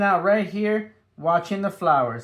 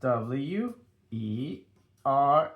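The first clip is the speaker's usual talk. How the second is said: spelling out letters; 4 semitones lower, slower than usual. Shown as a demonstration. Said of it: "we wanna learn how to spell it".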